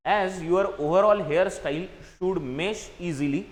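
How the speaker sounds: slow, deliberate reading of the exercise sentence; teacher dictating a sentence; slow read-aloud. Shown as a demonstration. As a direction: read it out word by word for the class. Reads the English sentence aloud.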